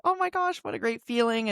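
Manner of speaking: high-pitched gush, easing down after the opening; thrilled little quote of oneself; delighted gush. Retold or imitated. Acted quote of relieved delight.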